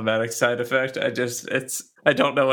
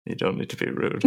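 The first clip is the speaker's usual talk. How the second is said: whispered; 5 dB quieter than usual. Acted. Mock scolding.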